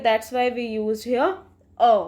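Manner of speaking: slow, deliberate rule; slow emphasis. Shown as a demonstration. Teacher explaining the article to students, slow. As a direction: lay it out word by word. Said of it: "rule spoken for students".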